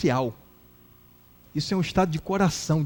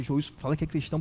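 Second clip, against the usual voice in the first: low, soft aside; retold hushed plea; 5 semitones lower, 8 dB quieter, much faster than usual. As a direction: imitate quietly urging a friend. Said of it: "Eu falei baixinho assim".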